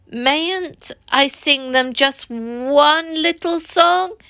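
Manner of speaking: slow, high pleading whine on song; pleading piteously. Acted. Toad begs his friends for one song, pleading piteously. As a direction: beg like a child for one small treat. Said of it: "he pleaded piteously".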